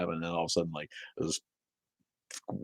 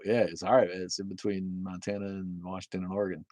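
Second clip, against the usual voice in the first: ordinary delivery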